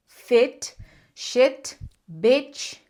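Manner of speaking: "fit", "shit", "bitch" with a short, open I leaning toward E; short English I; short I demo. Shown as a demonstration. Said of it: "onde tá escrito um I sozinho vai ser curto".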